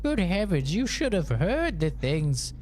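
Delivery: put-on high prim old-lady voice, shocked; mimicking mom. Son mimics mom's horror at sister's music, high and prim. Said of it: "She's like".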